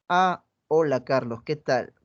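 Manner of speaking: greets him while looking at her phone; bored greeting. Shown as a demonstration. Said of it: "Un mismo mensaje dicho de diferente manera". (saludo aburrido y desganado, más bajo)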